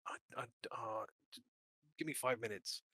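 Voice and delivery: groggy whisper, barely awake; a hungover man mumbling softly; hungover villager. Acted. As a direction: croak it out with a hangover. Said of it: "got a hangover, so he's like".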